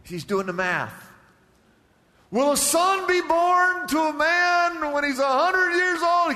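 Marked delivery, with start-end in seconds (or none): 2.3-6.3 high, loud, drawn-out disbelief; incredulous Abraham. Acted. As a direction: exclaim it as an absurd question. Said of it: "he's laughing so hard he can't even talk".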